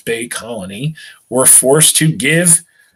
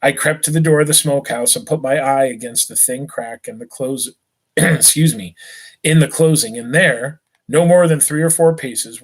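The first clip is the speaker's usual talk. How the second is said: steady read-aloud narration to a class; story narration. A narrator's reading. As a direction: read the passage to the students, even and clear. Teacher reads novel aloud.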